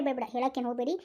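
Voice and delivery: calm him down gently; soothing. Acted. Wife soothing the crying husband.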